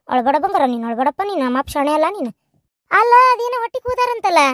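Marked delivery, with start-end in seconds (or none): 0.1-2.3 put-on soothing a child. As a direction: gently hush a crying little one. Comforting a crying child. (ಅಳುವ ಮಗುವನ್ನು ಮೃದುವಾಗಿ ಸಮಾಧಾನಿಸುವುದು)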